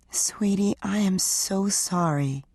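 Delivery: whispered, then slow and halting; barely breathing the apology out; breath-held whisper. Acted. Wife apologizing to silent husband in bed, whispered. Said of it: "she said, holding her breath".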